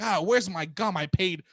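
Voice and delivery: lightly acted griping clerk, slowing and rising; hammed-up indignant clerk; angry clerk. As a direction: complain like a put-upon clerk, pitch climbing. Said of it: "I was the angry".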